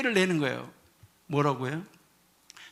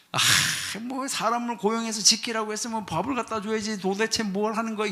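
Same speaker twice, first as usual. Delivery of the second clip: a lightly voiced hungry worker grumbling; mock indignant, higher grumble; grumbling complaint; 4 semitones higher than usual. (배고픈 일꾼의 가벼운 불평)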